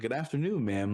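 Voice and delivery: mad polite. Retold or imitated. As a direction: retell it as an extra-polite greeting. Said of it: "Like, mad polite".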